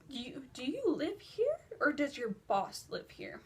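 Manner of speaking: baffled question; retold bewilderment. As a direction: ask it in stretched-out mock disbelief. Retold stunned reaction to apartment.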